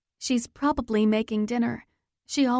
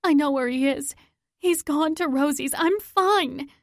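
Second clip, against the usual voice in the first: higher, louder insistence; urgent shout; 6 semitones higher, 3 dB louder than usual. Acted. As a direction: brush off the hospital and push on. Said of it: "I shout".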